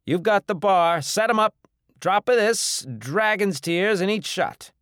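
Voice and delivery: high, loud string of orders; bossy bar owner. Acted. Bar owner handing over to his helper, loud orders. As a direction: call instructions across the bar.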